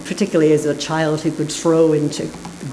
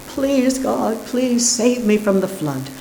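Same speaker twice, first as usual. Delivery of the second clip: high, earnest plea to God; praying man; 6 semitones higher than usual. A narrator's reading. Flooded man praying to God for rescue, high pleading. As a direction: lift the voice in a desperate prayer. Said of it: "the man starts to pray".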